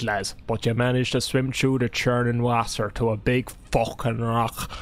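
put-on reading the game's intro in a light Scottish accent; a hammed-up Scottish storyteller voice, loosely held. Streamer reads the Daggerfall intro to chat in a Scottish accent. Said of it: "That was definitely Scottish".

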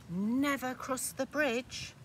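lightly voiced cautious goat; warning goat voice. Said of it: "the middle-sized one is saying".

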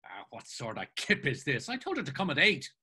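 mildly peeved grumble, rising; a touch of petulance; sudden pet. Acted. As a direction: complain in a huff, speeding up at the end. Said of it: "sat down in a sudden pet".

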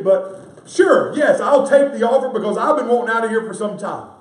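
loud, high impassioned sermon delivery; fiery revival preaching; full-force preaching. Real, not acted. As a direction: preach it out at the top of your voice.

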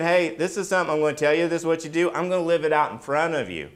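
preacher lightly voicing Jesus. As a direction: lift the voice to speak as Jesus. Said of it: "He wasn't just saying".

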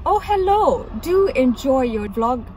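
a lightly posh theatrical greeting; Shakespearean. Retold or imitated. Mimicking a stranger from a taxi, mildly Shakespearean. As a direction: mimic a hammy Shakespearean hello. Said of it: "he said it, like, so, like, Shakespearean".

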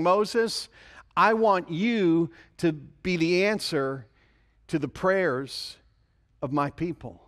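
voice of God. Retold or imitated. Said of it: "He was saying".

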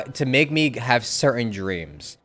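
ordinary delivery

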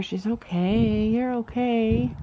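slow, gentle reassurance to a shaking horse; calm her down slowly; soothing reassurance. Real, not acted. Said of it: "So a reminder".

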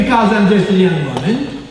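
scoffing, Because rising; mock the wrong reading; mocking misreading. Shown as a demonstration. Preacher scoffing at a false reading of Mary. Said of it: "It doesn't say".

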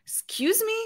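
very high incredulous question; acted-out baffled squeak; mind blown. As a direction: ask it in sheer disbelief. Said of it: "it blowed my mind".

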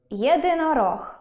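«Єдинорог» split into four syllables, є-ди-но-рог; syllable demo. Shown as a demonstration. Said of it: "Цілих чотири склади". («Єдинорог» вище, по складах)

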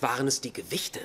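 hushed, breathy aside; sly whispered quip; whispered punchline. Acted.

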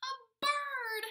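loud, high, excited call; thrilled exclamation; excited announcement. A narrator's reading. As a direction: announce it like a big surprise. Announcing the next animal loudly.

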